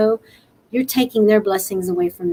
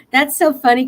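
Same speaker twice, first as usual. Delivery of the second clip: laughing; 4 semitones higher than usual. Real, not acted. Laughing at Nutty Butters news.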